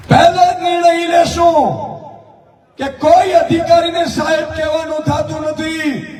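ઊંચા અવાજે જોશીલું ભાષણ; fiery rally speech. Acted. Rally speech at full force.

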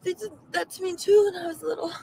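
hammed-up blubbering confession; theatrical tearful voice; mock crying. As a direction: weep it out, half-laughing at yourself. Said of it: "I'm just crying".

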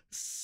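soft sustained hiss; held S sound. Shown as a demonstration. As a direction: hold a quiet S. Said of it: "hold this and bring in my S's".

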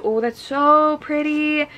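high, drawn-out coo of admiration; delighted gushing. Real, not acted. Showing off special editions to viewers, gushing in delight. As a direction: gush slowly, voice held up high. Admiring books while unboxing.

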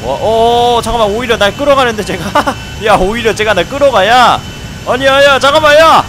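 loud, fast alarmed shouting; panicked yelling. Real, not acted. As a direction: yell as things go wrong. Plane gets dragged away.

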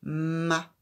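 "ma?" said loud and distinct; teacher quizzing with a loud "ma?"; quiz syllable. Shown as a demonstration. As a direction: call out "ma?" clearly for the child to find. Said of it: "où est la syllabe".

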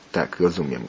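usual speaking voice

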